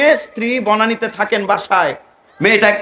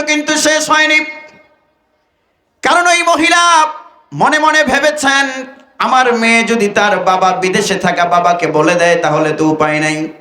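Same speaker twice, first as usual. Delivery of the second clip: intoned sermon storytelling. Acted. Preacher recounting the mother's plot, chanting. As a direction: intone the tale gravely to the brothers.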